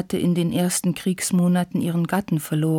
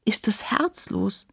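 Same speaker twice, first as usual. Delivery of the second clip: slow, whispery tearful question; sobbing; 3 semitones higher, 4 dB quieter than usual. A narrator's reading. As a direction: ask slowly, breath catching as if crying. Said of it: "schluchzte sie". (gehaucht, schluchzend)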